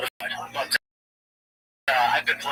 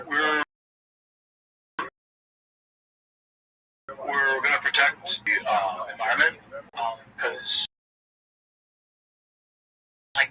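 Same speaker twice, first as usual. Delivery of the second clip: dumb fundraiser guy. Retold or imitated. Mocking the dumb canvassers he knew, lightly halting. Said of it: "And they talk like this".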